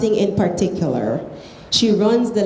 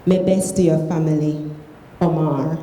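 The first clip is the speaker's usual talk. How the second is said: reading aloud in Krio; Sierra Leone Creole. Shown as a demonstration. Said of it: "read it in Creole".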